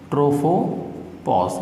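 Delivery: drawn-out, measured naming of the term; slow term dictation. Shown as a demonstration. Teacher naming the new boundary for students, slow and drawn-out. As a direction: say the term very slowly, stretching it out.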